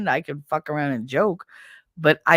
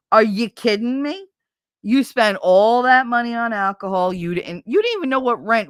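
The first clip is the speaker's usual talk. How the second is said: angry; 4 semitones higher than usual. Real, not acted. Ranting at ex-husband.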